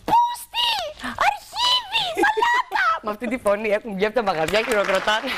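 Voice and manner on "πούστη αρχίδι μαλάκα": shrieked insults. Retold or imitated. Betty screams insults at the thief, shrieking. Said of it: "Και φωνάζει η Μπέτη".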